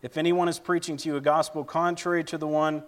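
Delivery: measured public Bible reading; scripture reading. Acted. Preacher reading Galatians to the church, formal scripture reading. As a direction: read it out clearly, phrase by phrase. Reads Galatians one aloud to congregation.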